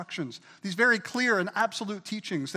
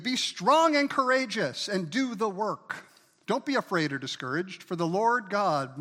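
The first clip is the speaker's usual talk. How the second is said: slow, loud charge to the people; louder, slower biblical charge; forceful scripture read; 4 dB louder than usual. Acted. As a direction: declaim it like a king's command. Reads David's charge forcefully.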